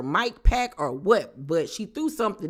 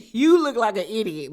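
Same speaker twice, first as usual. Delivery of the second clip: laughing; 4 semitones higher, 4 dB louder than usual. Retold or imitated. Repeats quote, laughing.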